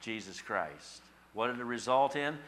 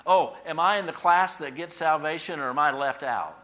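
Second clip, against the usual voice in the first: loud, higher-pitched mock questioning; acted worried questioner; 6 semitones higher, 10 dB louder than usual. Imagined listener asking about salvation, mock concern. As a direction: exaggerate the question at full voice.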